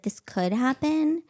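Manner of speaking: slow, ominous worry; paranoid dread. Retold or imitated. Woman after watching Dateline, slow ominous dread. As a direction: draw it out with dread. Paranoid true-crime thought.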